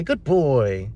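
drawn-out, encouraging praise; praising the dog. Retold or imitated. Owner to his runaway dog, praising. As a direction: praise the dog as if all is well. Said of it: "trying to praise him".

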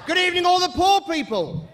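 high, loud call to the cheap seats; showman greeting. Acted. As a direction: hail the poor like a ringmaster. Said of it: "compere greeting the crowd".

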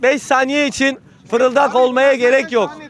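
to someone hard of hearing. Real, not acted. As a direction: spell it out loud and slow so the back hears. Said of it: "Biraz yüksek sesle konuşun".

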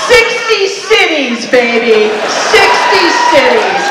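mock triumphant shout. Joking about a touring show.

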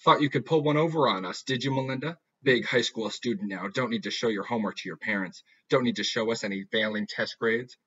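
a hint of a sweetly menacing mother; mock-sweet threat through a smile; creepy mom. Mother confronting daughter over grades, lightly creepy. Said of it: "Mom, creepy smile".

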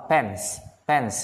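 "Pence" as pen with a hissed s after it; pen plus hiss. Shown as a demonstration. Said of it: "pen mà có âm xì xong".

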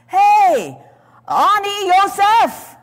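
high, loud, slow shocked yell; indignant scream. Retold or imitated. Young Joseph screaming up from the pit at brothers, shocked yell. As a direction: cry up out of the pit in outrage. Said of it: "he had screamed in shock and indignance".

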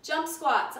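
breathless, winded coach; puffing out the words, out of breath. Real, not acted. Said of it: "I'm out of breath".

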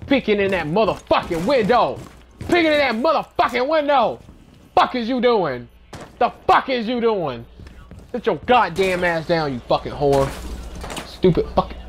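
high furious cursing at the screen; shrill angry tirade, pitch way up; gamer rage. Real, not acted. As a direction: rage at the guy peeking the window. Raging at enemy players.

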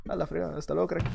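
soft, under-the-breath goodbye; quiet farewell. Real, not acted. Gamer quietly sending off a beaten player, soft mutter. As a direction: mumble the goodbye to yourself.

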